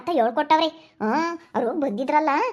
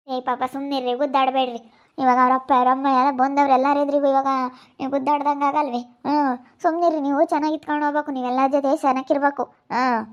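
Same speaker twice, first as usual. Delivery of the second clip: elder telling the family to stop fighting, lower calming voice; 3 semitones lower than usual. Acted. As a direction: lower voice of an elder soothing a quarrel. Elder voice calms the quarrel.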